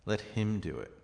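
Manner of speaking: "him" stands out, the rest falls away; emphatic "him"; stress on him. Shown as a demonstration. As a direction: lean on the word "him". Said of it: "indicated by the stress of the voice".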